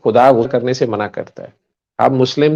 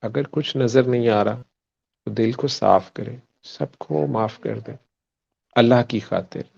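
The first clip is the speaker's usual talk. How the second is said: guided meditation. Shown as a demonstration. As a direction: lead them gently inward, unhurried. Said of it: "दुआ जो आप कह रहे थे मैं करवा दूं".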